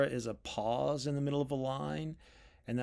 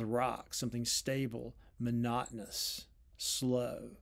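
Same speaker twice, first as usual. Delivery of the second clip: softer, settled and monotonous; calming down; 2 semitones lower, 5 dB quieter, slower than usual. Shown as a demonstration. Lecturer showing the poem ending on rocks, calming down. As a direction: let it drop soft and steady, word by word. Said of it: "a kind of calming down".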